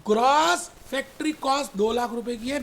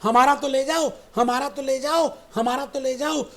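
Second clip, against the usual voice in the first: mock calling out; 6 dB louder than usual. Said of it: "office वाले चिल्लाने लगे".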